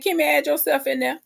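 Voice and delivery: retorting at the screen; telling them off. Retold or imitated. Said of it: "And I was just like".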